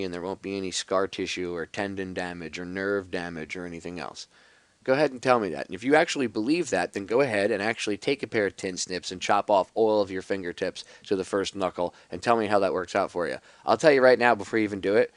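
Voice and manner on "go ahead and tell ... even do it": pointed, emphatic sarcastic challenge; sarcastic goading, pushed harder at the end. Real, not acted. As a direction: dare the listener with biting sarcasm. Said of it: "you obviously sense the sarcasm in my voice".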